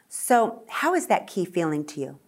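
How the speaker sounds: softly whispered question; checking with the singer in a hush. Real, not acted. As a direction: ask her quietly. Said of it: "whispered question".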